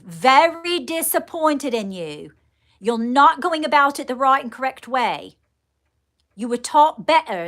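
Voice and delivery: upset fatherly scolding. Retold or imitated. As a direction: let a disappointed father scold through you. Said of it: "you see how I'm getting very upset?".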